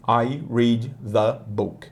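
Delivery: "the" said like "zi", slowly; a second slow take of "I read the book"; alternate "the". Shown as a demonstration. Teacher giving students the regional variant "the". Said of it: "Algumas pessoas falam the".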